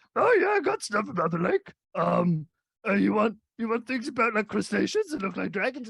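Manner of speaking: dim-witted, high, dopey dumb voice. Retelling a visit to a book merchant, imitating his dumb voice. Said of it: "Chunky had a dumb voice".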